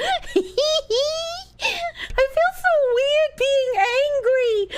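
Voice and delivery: words half-broken by real laughter, slow and high; can't stop laughing while confessing; laughing through words. Real, not acted. Streamer laughs off her angry act to chat, laughing.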